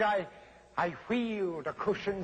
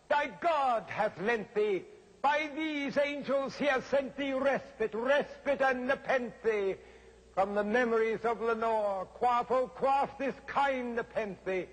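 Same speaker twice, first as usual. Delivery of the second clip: higher, pleading and feverish; crying out; 6 semitones higher than usual. A narrator's reading. Narrator urges himself to forget Lenore, high and pleading. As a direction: beg yourself to forget. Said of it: "I cried".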